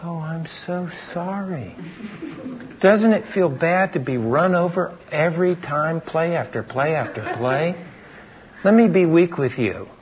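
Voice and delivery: a hint of mocking tenderness; mock sympathy. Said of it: "we don't go".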